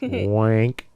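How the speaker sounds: "wank" with a long open A; mispronounced wink. Retold or imitated. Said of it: "Not wank, wink".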